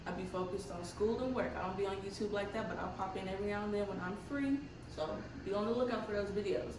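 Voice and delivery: talking with retainers in; wearing a retainer. Real, not acted. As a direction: speak around a retainer. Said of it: "Sorry about my teeth. My retainers are in right now".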